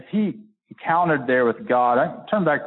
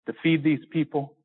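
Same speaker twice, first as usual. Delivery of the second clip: higher and higher, incredulous questions to God; Moses questioning God; 7 semitones higher than usual. Retold or imitated. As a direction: Moses pressing God in disbelief. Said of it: "He says".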